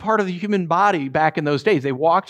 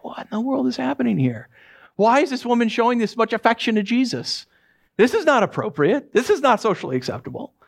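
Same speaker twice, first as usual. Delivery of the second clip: higher-pitched, mock-indignant objection; scandalized disapproval; 5 semitones higher than usual. Guests objecting to the woman's affection, mock scandalized.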